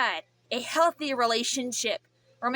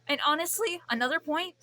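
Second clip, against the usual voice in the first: cracking higher voice; 4 semitones higher than usual. Real, not acted. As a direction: let the voice break. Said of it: "wow, the voice crack is crazy".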